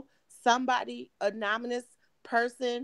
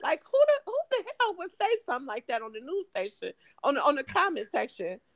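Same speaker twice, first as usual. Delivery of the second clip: demanding detectives; 7 semitones higher than usual. Retold or imitated. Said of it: "I'm talking to the detectives".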